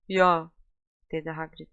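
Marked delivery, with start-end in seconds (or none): 0.1-0.5 louder, choked-up husky voice. Acted. Hagrid says goodbye after crying, husky and loud. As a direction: speak through a thick, tear-choked throat. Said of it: "Boğuk mu boğuk bir sesle".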